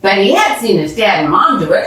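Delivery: usual speaking voice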